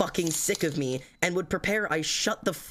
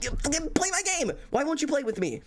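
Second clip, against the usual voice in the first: high pleading whine; 8 semitones higher than usual. Acted. Pleading with friends to debate.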